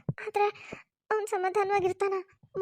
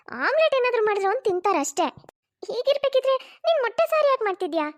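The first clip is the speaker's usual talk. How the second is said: higher, louder elder woman scolding lightly; mother-in-law protesting, raised voice; objecting mother-in-law; 3 semitones higher, 4 dB louder than usual. Acted. (ಸ್ವಲ್ಪ ಜೋರಾಗಿ ಆಕ್ಷೇಪಿಸುವ ಅತ್ತೆ)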